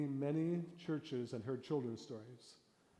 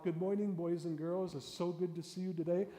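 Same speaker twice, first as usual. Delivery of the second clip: a hint of a chirpy greeting; 5 semitones higher, 6 dB louder than usual. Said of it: "Good storytellers don't start off".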